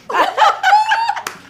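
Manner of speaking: high, loud laugh; a real shrieking laugh; real laughing fit; burst of laughter. Real, not acted. Laughing at her own story.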